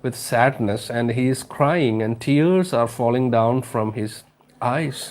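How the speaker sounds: slow, careful read-aloud for the class; slow story reading. Acted. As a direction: read each word out slowly to students. Teacher reads story slowly. (പതുക്കെ കഥ വായിക്കുന്നു)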